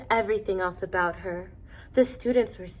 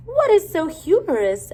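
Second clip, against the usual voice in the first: teacher asking; 9 semitones higher, 9 dB louder than usual. A narrator's reading. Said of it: "asked Missus Twinkle".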